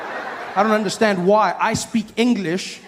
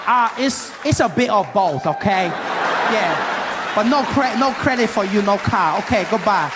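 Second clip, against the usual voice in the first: put-on higher, insistent accented dealer voice; Asian dealer impression; 3 semitones higher, slower than usual. Dealer lecturing about credit in America, higher accented impression. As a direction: push the broken-English sales pitch, a bit higher. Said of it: "this Asian gentleman helping me".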